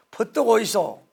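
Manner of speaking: loud, high Gyeongsang call; Gyeongsang accent. Retold or imitated. Pastor hamming up a Gyeongsang welcome, loud Gyeongsang accent. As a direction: shout it like a brisk Busan shopkeeper. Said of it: "경상도".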